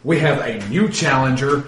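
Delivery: ring announcer. Acted. Announcer tells the crowd of a new challenger, building ringside call. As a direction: introduce the challenger, then belt out the name. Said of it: "The announcer gets back up and he says".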